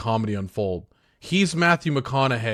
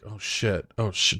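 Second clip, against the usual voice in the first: inner realization; 4 semitones lower, 5 dB quieter than usual. Acted. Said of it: "in his head, he's like".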